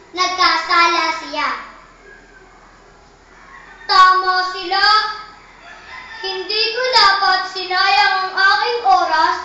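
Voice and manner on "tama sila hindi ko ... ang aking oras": lightly voiced regretful grasshopper; remorseful. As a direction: admit his mistake to himself.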